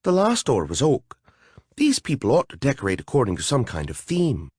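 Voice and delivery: lightly voiced fairy, a touch of mock distaste; prissy little fairy wrinkling her nose. A fairy grumbling to her companions, lightly voiced.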